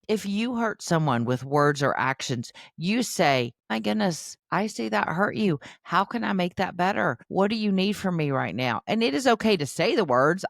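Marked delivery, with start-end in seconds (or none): 3.7-8.8 modeled apology. Shown as a demonstration. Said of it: "you start by modeling that".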